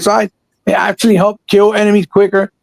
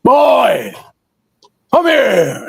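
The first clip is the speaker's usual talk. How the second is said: whiny voice; much slower than usual. Retold or imitated. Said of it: "his whiny ass voice".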